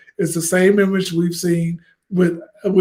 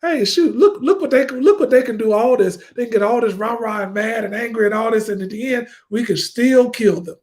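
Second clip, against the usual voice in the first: high, taunting gloat with a laugh; mocking gloat; 4 semitones higher than usual. Mocking how the powerful see the ending. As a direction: sneer like the ones who won. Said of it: "take away from that".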